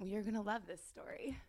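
conspiratorial whisper. Real, not acted. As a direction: whisper it like a secret. Teasing before a juicy story.

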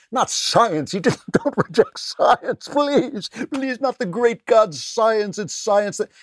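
high, slow whiny mock pleading. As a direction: whine it like a scandalized believer. Mocking the science-worshippers.

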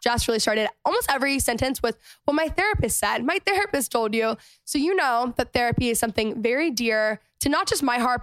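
clear, even podcast ad read; sponsor ad read. Acted. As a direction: read the sponsor copy with steady, tidy phrasing. Host reads sponsor ad.

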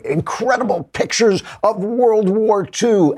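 high, slow mock headline voice; clickbait announcer voice. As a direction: ham up a breathless clickbait headline. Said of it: "they say".

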